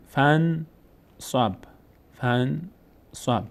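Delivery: spaced syllables in فن صب, a pause after each; teacher's model reading of فن صب in two pieces; silent connecting alef. Shown as a demonstration. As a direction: sound out فن صب as "fan... sab", skipping the alef. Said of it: "خوانده نمیشه".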